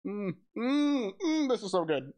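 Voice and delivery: mock moaning with pleasure; delighted. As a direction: savor it, overjoyed. Tasting, overjoyed.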